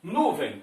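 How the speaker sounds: Nuvem with a strong nu; stress on first syllable. Shown as a demonstration. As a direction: lean on the start of Nuvem. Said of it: "qual é a sílaba mais forte". (Nuvem com a primeira sílaba forte)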